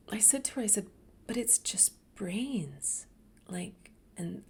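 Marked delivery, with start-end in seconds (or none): 1.3-4.4 retold hushed protest. Whispering her objection at dinner.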